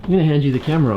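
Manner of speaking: speaking while climbing steep stairs; climbing steep stairs, careful footing. Real, not acted. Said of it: "These stairs are very steep".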